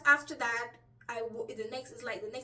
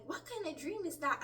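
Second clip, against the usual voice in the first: higher-pitched, bemused question; puzzled; 5 semitones higher than usual. Retold or imitated. Woman waking from a strange dream, puzzled. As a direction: retell it with mild bewilderment. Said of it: "I was really puzzled".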